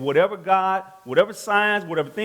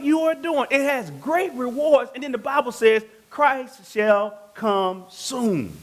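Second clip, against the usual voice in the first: raised, emphatic preaching with stretched key words; 6 semitones higher than usual. Real, not acted. Preacher urging the congregation not to lose confidence, preaching.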